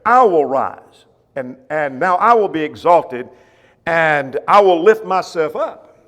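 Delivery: slow, loud, every I weighted; proclaiming as God. Acted. Preacher booming God's words to the congregation, slow and loud. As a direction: declare it like God rising up.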